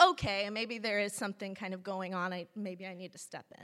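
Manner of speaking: ordinary talk, nothing marked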